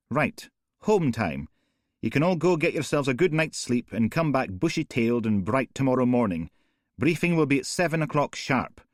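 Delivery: sending the team home for the night; brisk boss. Acted. Mother dismisses the team.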